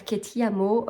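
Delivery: The line in a light, tentative Italian accent; Italian pronunciation. Real, not acted. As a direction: try the Italian title with an apologetic Italian accent. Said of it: "je m'excuse pour mon accent, euh, italien". (La phrase avec un petit accent italien hésitant)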